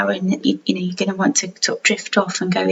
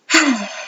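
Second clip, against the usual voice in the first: relaxed sigh; 5 semitones higher than usual. Real, not acted. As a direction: let out a settling breath. Settling listeners before meditation.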